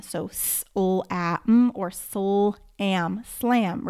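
"s, l, a, m" sounded one by one, then "slam" blended; segmenting then blending. Shown as a demonstration. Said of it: "add maybe another sound".

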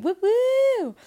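high, slow, loud cheer with a laugh; excited whoop. Real, not acted. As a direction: cheer it out, thrilled at her win. Celebrating finishing a whole chapter.

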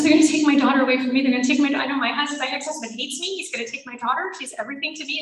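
rushed, fretful protest; retold panic. Mother afraid they will take her daughter, retold panic. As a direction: blurt it out fast, fading as you go.

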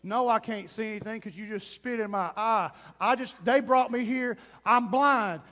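indignant, lightly sarcastic complaint; mock sarcastic. Blind man answering after being spat on, mock sarcastic indignation. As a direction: act out an offended, sarcastic retort. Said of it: "He could have said sarcastically".

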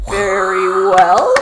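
slow, lightly voiced fairy; a hint of a patient fairy; tiny tinkling fairy voice. A narrator's reading. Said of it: "said the fairy".

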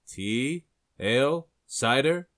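high, rising barkeep offers. Acted. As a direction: rattle off the drinks, each lilting upward.

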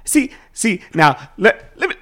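loose, half-hearted stand-up imitation; Bill Cosby impression. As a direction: ease into a lightly voiced comedian bit. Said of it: "Bill Cosby".

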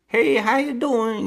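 drawn-out, high attempt at a funny Italian-sounding accent; bad overdub accent. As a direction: botch a dubbed Italian-ish accent, slowly. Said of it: "the only guy with a overdub accent".

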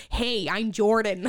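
slow, laid-back guy greeting; lightly voiced surfer-ish Jordan, slow and easy; Jordan impression. Friend imitates Jordan introducing himself, slow and laid-back. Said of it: "the best impression I've ever heard of Jordan".

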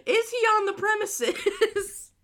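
slow, high, loud hollering imitation; mock screaming. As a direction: stretch it out like yelling from a car. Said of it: "you're screaming at the people".

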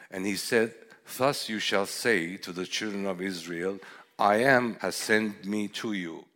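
scripture reading. Acted. Reads the Exodus passage aloud.

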